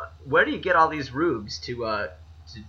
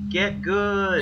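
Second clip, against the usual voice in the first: shouting up; 6 semitones higher than usual. Retold or imitated. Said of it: "I just shout up".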